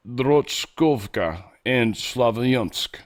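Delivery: slow, drawn-out Slavic-accented place names; put-on Slavic accent. Shown as a demonstration. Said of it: "just say it in an accent".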